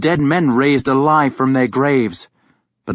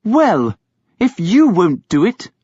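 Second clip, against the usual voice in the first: indignant; 7 semitones higher, 3 dB louder than usual. A narrator's reading. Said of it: "Beocca said indignantly".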